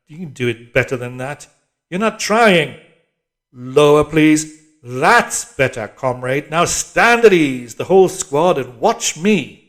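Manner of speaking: loud, bossy orders from the screen; harsh telescreen drill voice, shouting; barking drill instructress. A narrator's reading. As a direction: command the squad like a hectoring PE instructress.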